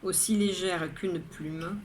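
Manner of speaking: measured poetry reading, line by line; poem recitation. Acted. Poet reading her daily poem to viewers, measured recitation. Reads the poem a third time.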